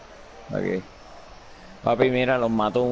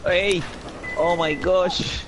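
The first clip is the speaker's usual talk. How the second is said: excited yelling; 10 semitones higher, much slower than usual. Real, not acted. Big hype after a goal.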